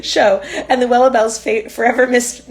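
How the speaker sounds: loud laugh through words; breaking up with laughter. Real, not acted. Reader still laughing.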